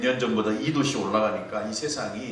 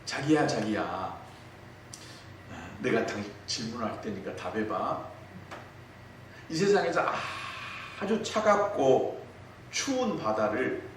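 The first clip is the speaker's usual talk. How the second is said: cutesy wife. Retold or imitated. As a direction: play the cooing bride teasing her husband. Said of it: "이 애교 질문을 합니다".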